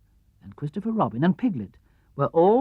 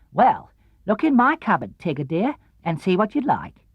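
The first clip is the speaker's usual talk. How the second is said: kindly; 4 semitones higher than usual. Acted. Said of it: "very kindly".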